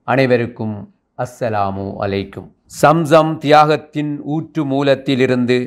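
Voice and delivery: measured, ringing verse recitation; poetic declamation. Acted. Host opening a Hajj poetry gathering, poetic declamation. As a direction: declaim it phrase by phrase with pauses.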